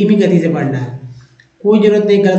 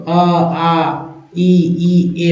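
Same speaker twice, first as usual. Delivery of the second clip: slow vowel demo; much slower than usual. Shown as a demonstration. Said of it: "कैसे".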